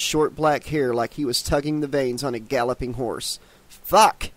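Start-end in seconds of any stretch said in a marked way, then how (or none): 3.7-4.3 hissed curse. A narrator's reading. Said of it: "she hissed".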